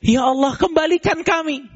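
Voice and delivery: pleading dead. Acted. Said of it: "Mereka bilang".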